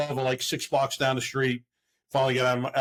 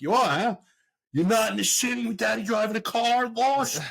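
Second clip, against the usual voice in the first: raised, sarcastic gotcha; sarcastic callout; 10 semitones higher than usual. Retold or imitated. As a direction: catch her in the lie, mocking. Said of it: "I'm like".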